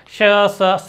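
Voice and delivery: "श, स" as separate sounds, loud; distinct sibilants. Shown as a demonstration. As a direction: contrast hushing "श" with hissing "स". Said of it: "स का sound अलग अलग है".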